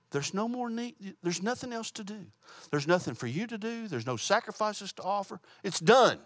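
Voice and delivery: fervent sermon build; rising fervor. Real, not acted. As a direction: preach it up to the climax. Preacher rising to emphatic point.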